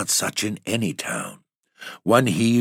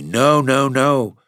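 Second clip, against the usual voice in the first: higher, louder firm refusals; Lizzie refusing; 8 semitones higher, 4 dB louder, slower than usual. Acted. Lizzie refusing the goblins' offer, a higher, louder no. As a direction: push the fruit away, a raised no. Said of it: "said Lizzie".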